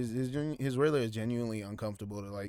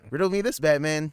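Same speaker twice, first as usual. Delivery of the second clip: higher, louder Riddler taunt; 4 semitones higher, 4 dB louder than usual. Retold or imitated. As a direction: tease it like the Riddler. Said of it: "the Riddler".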